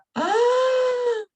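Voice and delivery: high shocked gasp with a sob; a loud breaking gasp; sharp crying gasp. Retold or imitated. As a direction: gasp as if hit by the truth. Retold moment of self-discovery.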